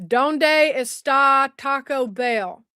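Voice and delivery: slow, badly faked Spanish accent; mock Spanish accent. Shown as a demonstration. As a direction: stretch the words out in a poor Spanish accent. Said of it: "Spanish accent, my Hispanic accent".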